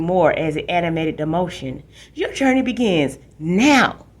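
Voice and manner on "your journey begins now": higher, louder, slow grand announcer; dramatic slogan. Retold or imitated. Little brother grandly mocking the school slogan, louder and higher, slow. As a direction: deliver the slogan with a flourish. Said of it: "Danny waved his hands dramatically".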